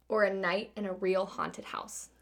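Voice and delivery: slow, whispery mock-spooky reading; hushed, teasing haunted-house suspense. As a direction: draw it out softly, almost whispered. Posing a spooky haunted house option.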